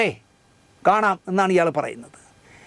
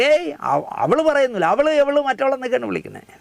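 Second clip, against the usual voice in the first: a higher-pitched mock protest, quoting the man; mimicked objection; 6 semitones higher than usual. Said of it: "എന്നിട്ട് ഇയാൾ പറയുന്നു".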